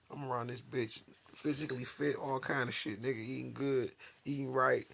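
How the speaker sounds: fed-up outraged rant; indignant rant. Real, not acted. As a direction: vent your disbelief at full volume. Ranting about being set up.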